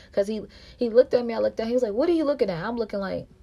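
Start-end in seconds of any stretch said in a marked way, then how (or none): 1.9-2.7 quoting him. Retold or imitated. His hostile challenge retold.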